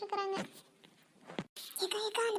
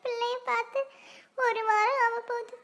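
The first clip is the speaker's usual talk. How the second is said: acted weepy worrying aloud; tearful lament. Mother fretting over her daughter living away, tearful lament. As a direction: lament with drawn-out words, mildly tearful. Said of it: "ஏம்மா இப்படி அழுதுட்டு இருக்கிறீங்க?".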